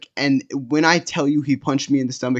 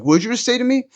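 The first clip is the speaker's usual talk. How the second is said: much higher, pitch climbing in disbelief; affronted challenge; 11 semitones higher, 3 dB louder than usual. Retold or imitated. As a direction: imitate an angry guy demanding a repeat. Acts out stranger's affronted challenge.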